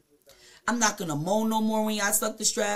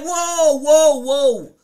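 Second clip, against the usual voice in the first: startled; 6 semitones higher, 9 dB louder, much slower than usual. Retold or imitated. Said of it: "I was like".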